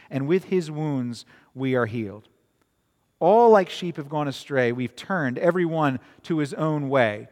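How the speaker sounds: measured, solemn reading of scripture. Acted. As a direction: read the verses like a pulpit reading. Reads Isaiah passage aloud.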